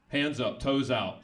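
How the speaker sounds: barking a stickup order; bank robber. Retold or imitated. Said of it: "my impression of a robber with a foot fetish".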